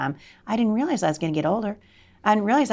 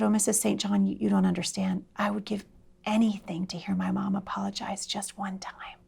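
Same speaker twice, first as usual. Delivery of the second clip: tearful girl, retold; 6 dB quieter than usual. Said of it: "she's crying".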